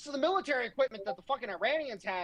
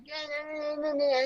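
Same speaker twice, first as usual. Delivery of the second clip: mock whining; 5 semitones higher than usual. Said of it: "your fucking whiny bullshit".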